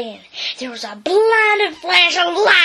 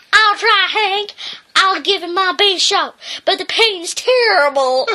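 higher, whiny little dog voice; hammed-up hurt little dog; timid dog; 5 semitones higher than usual. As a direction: whimper it up high. Drover voice in story.

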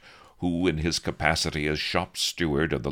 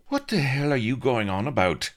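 higher, louder indignant Blood voice; demanding; 11 semitones higher, 5 dB louder than usual. A narrator's reading. Blood demands of Avery, higher and indignant. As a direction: demand it in a raised, exasperated voice. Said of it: "demanded Blood".

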